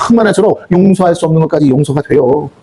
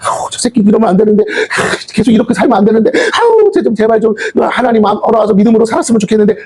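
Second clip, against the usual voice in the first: sighing, fretful parent, pitched up; orang tua cemas; 5 semitones higher than usual. Acted. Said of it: "사랑의 마음을 가지고".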